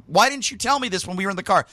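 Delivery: mock outrage at the friend; angry retort. Telling the friend off about the wrong arena, angry. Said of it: "So I am pissed off".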